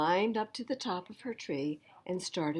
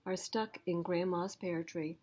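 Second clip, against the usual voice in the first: put-on higher child's pleading voice; child asking for help; 6 semitones higher than usual. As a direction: plead like a small kid in trouble. Jessie's plea voice.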